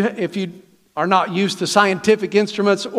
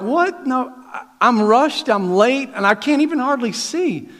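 higher-pitched flustered protest; mock upset; 5 semitones higher than usual. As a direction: act out a rushed, upset driver. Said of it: "I'm so upset".

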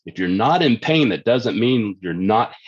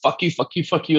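nerve cursing; 7 semitones higher than usual. Pretend. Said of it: "it's like".

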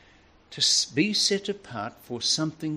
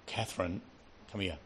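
stern father call; 5 semitones lower, 11 dB quieter than usual. Retold or imitated. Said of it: "big title now".

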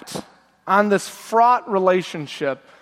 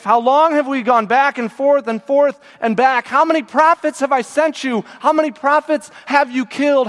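pained lament; 4 semitones higher than usual. Acted. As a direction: pile up the questions, rising in anguish. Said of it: "feel God's pain coming out of Jesus's mouth".

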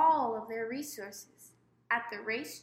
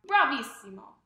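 louder triumphant exclamation; gleeful cry; 8 dB louder than usual. A narrator's reading. Queen delighted at the huntsman's news, gleeful cry. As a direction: crow with delight. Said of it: "The queen cried out".

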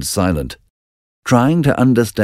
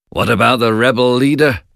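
king asking; 6 semitones higher, faster than usual. Acted. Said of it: "asked King Duncan".

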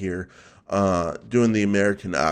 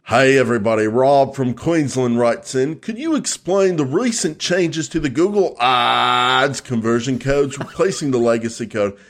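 put-on amateur Australian accent. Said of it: "the way to do an Australian accent".

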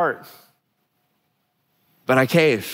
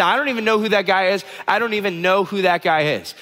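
higher-pitched, repeated mock denial; panicked denial; 5 semitones higher than usual. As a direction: insist in a mild acted panic. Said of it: "he keeps panicking".

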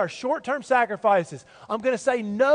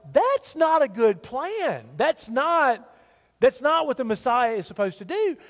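doubtful disciples; 3 semitones higher than usual. Retold or imitated. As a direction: sound like the disciples balking at the plan. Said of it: "the disciples are like".

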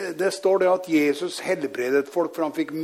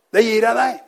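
higher, louder preaching quote; emphatic declaration; 6 semitones higher, 6 dB louder than usual. Retold or imitated. Preacher quotes Peter to the lame man, emphatic declaration. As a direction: hand it over with a firm push.

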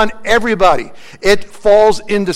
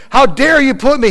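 higher-pitched mock indignation; imagined angry outburst; 6 semitones higher, 4 dB louder than usual. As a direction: act out an angry protest. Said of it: "he could be angry".

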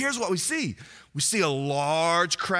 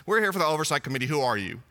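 brisk clipboard official; 4 semitones lower, much faster than usual. Retold or imitated. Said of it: "brass tacks with their clipboards".

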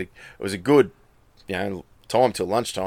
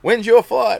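higher, louder mock urgent question; a mate's pressing question, a bit raised; 13 semitones higher, 7 dB louder than usual. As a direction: fire it off like an anxious mate. Mate asks, story retold.

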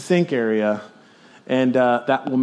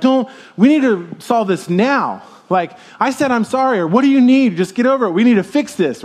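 pushy chasing voice; 6 semitones higher than usual. Retold or imitated. Voicing someone chasing a fix.

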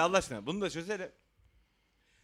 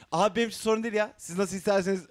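quick, louder mock-accommodating voice; easygoing attitude, imitated; 3 semitones higher, 4 dB louder, faster than usual. Host mimicking the guest's old agreeable attitude, mock easygoing. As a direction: imitate someone who claims not to mind. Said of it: "falan hali tavrı gitti".

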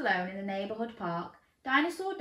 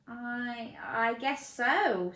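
timid; 4 semitones higher, much slower than usual. Acted. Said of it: "said Dinosaur Dan timidly".

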